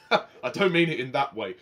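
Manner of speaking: chuckling through the line at his own innuendo; real amused laughter breaking in; laughing. Real, not acted.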